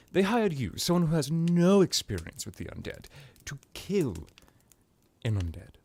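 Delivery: high-pitched, emphatic disbelief; incredulous scoffing. Acted. Scoffing at the employer's choice.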